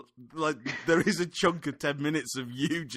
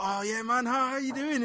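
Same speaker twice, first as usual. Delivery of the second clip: imitating friend; 14 semitones higher than usual. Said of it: "he's like".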